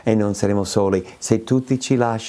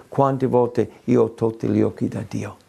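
usual speaking voice

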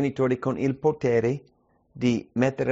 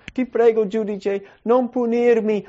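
begging criminal; 9 semitones higher, 5 dB louder than usual. Acted. Criminal begs the judge.

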